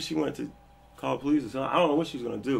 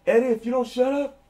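threatening tone; 10 semitones higher, 5 dB louder than usual. Retold or imitated. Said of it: "with that tone like".

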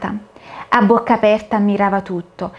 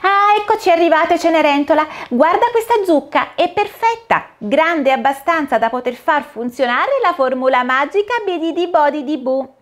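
high, bright-eyed fairy godmother, cheerful and busy; a fussy, merry fairy, much higher than the narrator; the fairy godmother greets Cinderella at the pumpkin, high and cheery; 8 semitones higher than usual. Acted.

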